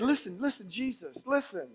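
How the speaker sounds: hushed urging. Retold or imitated. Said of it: "one of them came up to him and said".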